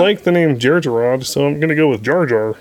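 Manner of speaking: slightly Kermit-like mimicry; George Lucas. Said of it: "That's my George Lucas voice".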